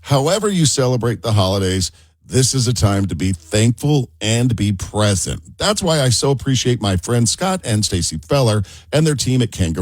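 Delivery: warm upbeat sponsor read; radio ad read. Acted. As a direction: sell it like a radio host. Reads a sponsor ad.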